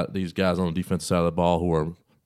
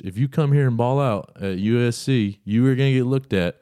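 higher, hyped recruiter sell; excited pitch; 5 semitones higher, 4 dB louder than usual. Acted. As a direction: sell it like a fired-up coach.

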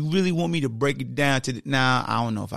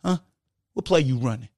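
flirty sweet-talk; faster than usual. Retold or imitated. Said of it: "that's how you shuffle to 'em".

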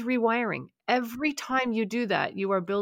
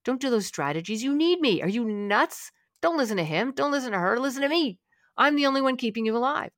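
needling, rising inner voice that gets higher; the anxiety nagging its owner, rising and pushy; anxiety's voice; 3 semitones higher than usual. Pretend. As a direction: play the anxious voice talking you out of it. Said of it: "That's your anxiety saying".

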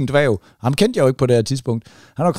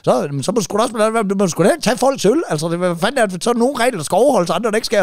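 higher, mock heated lecture on rules; retold heated reply; 6 semitones higher than usual. The teller argues back with the dwarf, mock heated lecture. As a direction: lecture him back, worked up. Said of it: "retold quarrel, teller's reply".

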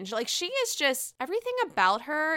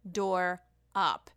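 retold shock; 3 semitones lower, 10 dB louder, much slower than usual. Vlogger retelling her reaction to a friend's text, slow then shouted. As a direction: drag it out then blurt it. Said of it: "and I was like".

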